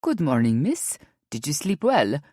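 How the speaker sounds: put-on light Brazilian accent, polite; a hint of a Brazilian housekeeper's greeting; understated Brazilian accent. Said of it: "spoke in a heavy Brazilian accent".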